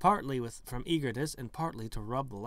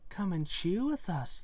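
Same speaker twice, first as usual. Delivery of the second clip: a little higher, sing-song invitation; lightly voiced coquettish twins; 6 semitones higher than usual.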